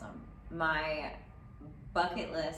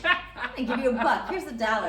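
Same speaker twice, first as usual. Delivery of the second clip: laughing, higher and louder; laughing mock reward; 7 semitones higher, 9 dB louder than usual. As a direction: laugh it out while offering the dollar.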